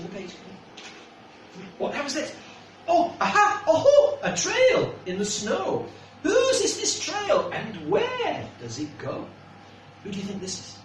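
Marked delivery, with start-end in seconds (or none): 2.9-9.2 delighted to spot the trail; giggly storybook excitement; excited laughing discovery. Acted. Excited discovery while reading.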